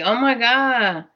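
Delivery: mildly acted overwhelmed reaction; imitated freak-out. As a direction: retell someone reeling, without shouting. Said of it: "He's, like, freaking out".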